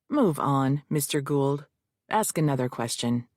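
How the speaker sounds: gruffly, with authority; judge. Acted. Judge orders the lawyer to move on, low and stern. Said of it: "the judge said".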